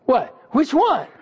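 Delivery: bewildered asking which prayer; a touch of comic confusion; baffled surprise. Retold or imitated. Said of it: "Most of us would go".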